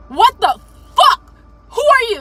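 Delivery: mock an outraged drill sergeant; cussing drill sergeant. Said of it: "He's cussing".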